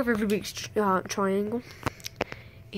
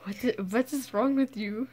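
lightly put-on Russian accent. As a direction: ask with a playful Russian accent. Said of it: "Why are we all talking in Russian accents?".

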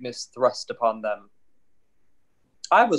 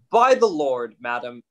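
mock mad reading; 6 dB louder than usual. Feste reads the letter madly.

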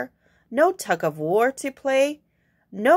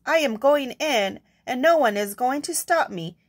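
determined hen; 3 semitones higher than usual. Acted. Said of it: "she announced".

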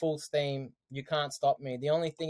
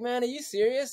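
much higher, disbelieving question; as if you can't believe what you just heard; incredulous; 8 semitones higher than usual. Retold or imitated. Teenager to older mates about their plans, incredulous.

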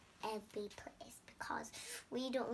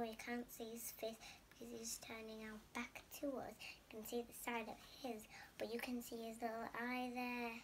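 whisper; 6 dB quieter, faster than usual. Real, not acted.

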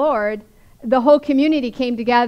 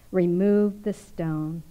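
slow, low, measured order; calm command; 4 semitones lower, 4 dB quieter, much slower than usual. Retold or imitated. Jesus telling the mourners, a slow firm command. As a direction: say it slowly, with quiet authority. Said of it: "Jesus said to those around him".

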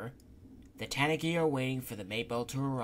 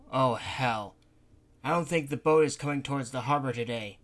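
lightly voiced grumbling old worrier, a bit louder; fretful Gonta; 6 dB louder than usual. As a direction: Gonta frets, half raised.

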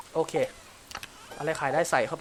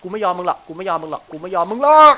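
much louder, hammering the same line; defiant shout; 11 dB louder than usual. Real, not acted. Gamer shouting defiance at the fish, loud. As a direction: refuse to give in to the fish.

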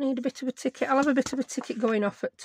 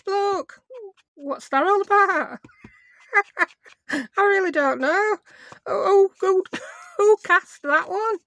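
high, loud, amused disbelief; laughing incredulity; 11 semitones higher, 5 dB louder than usual. Real, not acted. Crafter baffled by a film's casting, laughing incredulously. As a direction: pitch right up in baffled protest, breaking into laughs.

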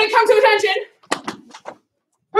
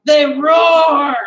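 shout; 7 dB louder than usual. Acted. Echoing roar to the class.

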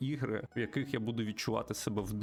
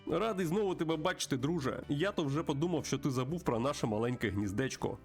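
raised, animated character voice; friendly bird host, pitched up; chatty old friend; 6 semitones higher than usual. Acted. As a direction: talk confidingly to a pal in a higher pitch. Plays friend character at saloon.

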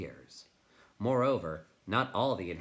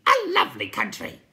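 loud, very high creature hoot; delighted cry; 13 dB louder than usual. A narrator's reading. Night Hob praises the country, delighted high cry. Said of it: "cried the Night Hob delightedly".

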